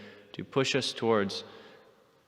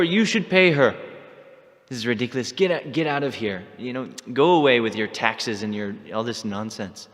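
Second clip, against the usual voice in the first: retold telling-off; 4 semitones higher, 6 dB louder than usual. Lalita wins argument, sends Krishna away.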